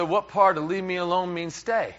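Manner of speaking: incredulous husband's question, run straight through; mildly exasperated comic question; acted bafflement. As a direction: retell it as a puzzled protest.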